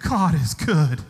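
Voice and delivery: slow, laughing awe at the gift; laughing delight. Retold or imitated. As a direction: savour each word through a laugh. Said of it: "I was like".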